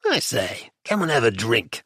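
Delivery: perking up with an invitation; old man newly hopeful; brightened. A narrator's reading. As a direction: coax him with sudden mild cheer. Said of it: "then brightened".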